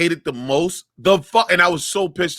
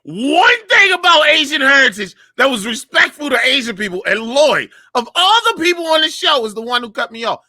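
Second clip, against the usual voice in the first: high, raised-voice complaint; exasperated rant; 7 semitones higher, 4 dB louder than usual. Real, not acted. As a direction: protest at being cut off mid-explanation. Complaining loudly about being cut off.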